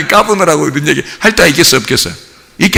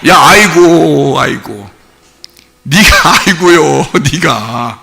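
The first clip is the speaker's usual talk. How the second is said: mock moaning; 5 semitones lower, slower than usual. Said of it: "너 혼자 "아이고, 아이고" 하는겨".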